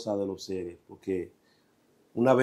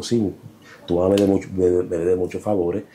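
lightly voiced spirit; 4 semitones lower than usual. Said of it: "Es Sili Danto".

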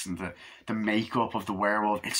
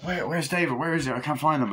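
higher, urgent retold questions; mock worried searching; 6 semitones higher than usual. Friends looking for missing David, acted worry. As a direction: act out anxious friends.

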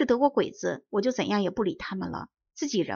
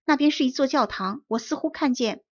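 raised voice shouting the report down; calling out loud; 4 semitones higher, 3 dB louder than usual. Acted. Boy reporting from the treetop, loud call. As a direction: call it down to the officer. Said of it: "大声地说".

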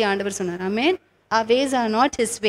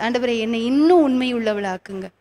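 muttered prayer; much faster than usual. Retold or imitated. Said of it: "when I uttered those words".

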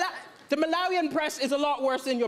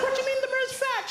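mock incredulous; 9 semitones higher, faster than usual. Incredulous question to woman.

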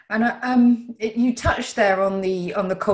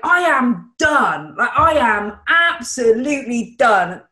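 loud outburst; 2 semitones higher, 4 dB louder than usual. Retold or imitated. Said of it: "like this explosion of".

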